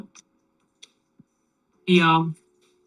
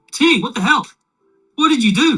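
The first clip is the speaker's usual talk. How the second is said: loud, high-pitched outburst of disbelief; beside themselves; 9 semitones higher, 8 dB louder, faster than usual. Acted. Frantic crowd confronts Timmy after the fire, beside themselves. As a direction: shout it in shocked alarm, voice jumping up. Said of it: "beside themselves".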